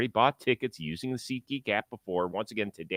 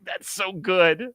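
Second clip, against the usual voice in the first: delighted awe; 6 semitones higher, 3 dB louder than usual. Retold or imitated. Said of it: "I was like".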